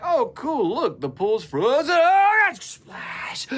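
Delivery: put-on high, childish panicky kid voice; eight-year-old voice. Friend hears him imitate himself at eight, high childish panic. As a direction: play a little kid who fell through the ice. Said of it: "doing my best eight-year-old impression".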